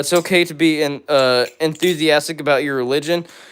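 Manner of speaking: ordinary delivery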